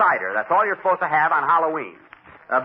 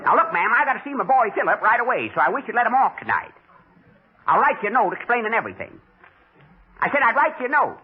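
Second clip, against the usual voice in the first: lightly put-on country bumpkin, a bit higher; old rube voice; 5 semitones higher than usual. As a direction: play a hick dad on the phone, slightly raised pitch. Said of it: "I'll talk like an old rube".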